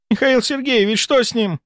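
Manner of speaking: high-pitched, alarmed question; frightened. A narrator's reading. Nurse Katya asks what is wrong, frightened. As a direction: ask the doctor in fright. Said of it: "Катя испуганно отскочила от кушетки".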